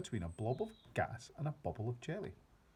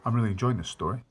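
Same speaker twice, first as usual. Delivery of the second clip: cheerful aside; 11 dB louder, faster than usual. Real, not acted. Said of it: "reader's own aside".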